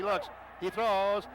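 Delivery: high, loud shouting play-by-play; excited shout. Real, not acted. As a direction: yell the turnover as it happens. Tipped interception shouted call.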